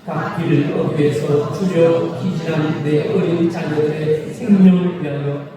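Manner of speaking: slow, weighty reading of the prophet's words; solemn scripture reading. Acted. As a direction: read each line slowly like a holy text. Preacher reads scripture aloud. (느리고 장엄한 성경 낭독)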